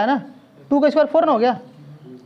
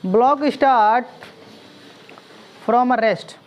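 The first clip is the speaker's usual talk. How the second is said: slow dictation; much slower than usual. Shown as a demonstration. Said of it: "लिखो".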